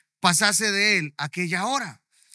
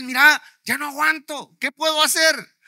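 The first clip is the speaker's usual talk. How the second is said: louder, desperate plea near tears; huilend smeken; 4 semitones higher, 4 dB louder than usual. Retold or imitated. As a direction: cry out that you can't take it anymore. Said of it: "te pones ahí a llorar".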